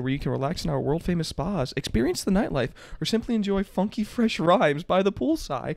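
upbeat TV ad pitch; infomercial. Pretend. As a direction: sell it like a late-night commercial. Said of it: "I'm gonna read this like an infomercial".

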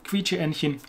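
Quietscheentchen softly, in one go; easy pronunciation. Shown as a demonstration. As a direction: toss off Quietscheentchen quietly with soft chen. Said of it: "I can pronounce that".

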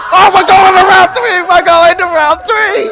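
big hype announcer call; booming fighting game announcer. Acted. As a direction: bellow it like a ringside announcer. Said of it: "ladies and gentlemen".

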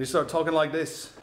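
lightly put-on Australian accent. Shown as a demonstration. Vlogger shows how living abroad changes speech, light Australian accent. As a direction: slip briefly into a mock Australian accent. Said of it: "live in Australia".

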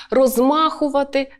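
"розмахувати" as roz-MA-khu-va-ty; second-syllable stress. Shown as a demonstration. Teacher shows stress moving along, "розмахувати" stressed on the second syllable. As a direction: lift and punch МА in "розмахувати". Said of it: "на другий".

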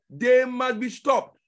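THEY must be stopped, said loud and slow; slow loud insistence. Shown as a demonstration. Preacher to congregation, loud slow repetition. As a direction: hammer it out loudly.

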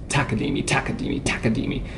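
"Takadimi" with the first syllable TA accented; stress on TA. Shown as a demonstration. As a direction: chant TAkadimi evenly, punching "Ta" each time. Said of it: "if you accent the first note".

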